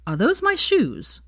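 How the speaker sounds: high, slow disbelief; incredulous. Acted. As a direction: stare in disbelief at his shoes. Harry spots his own shoes.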